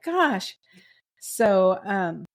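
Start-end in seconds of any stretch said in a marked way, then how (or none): 0.0-0.6 slow, drawn-out mock gasp of disbelief; a hint of teary amazement, said slowly; stunned reaction. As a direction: let it sink in slowly, lightly overwhelmed. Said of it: "another moment where I'm like".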